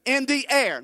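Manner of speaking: in the air, called out for the church to echo; emphatic call. Shown as a demonstration. Preacher leading his congregation, loud call. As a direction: punch air, loud, for them to repeat. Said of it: "Say it again".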